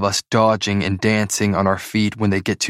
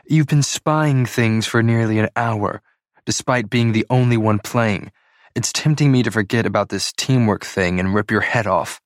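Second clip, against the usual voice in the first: growling irritation; 2 semitones higher than usual. Acted. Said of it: "She's practically growling".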